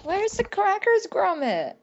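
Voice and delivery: high, loud Wallace impression; cheery northern inventor voice.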